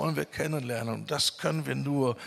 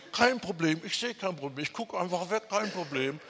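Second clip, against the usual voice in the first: lightly voiced ostrich, pitched higher; mock head-in-the-sand denial; 5 semitones higher than usual. Preacher voicing the ostrich that looks away, mock denial. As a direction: play someone breezily refusing to see trouble, higher pitch.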